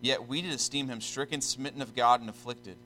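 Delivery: solemn, measured scripture reading. Real, not acted. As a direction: read the verse out with deliberate pauses.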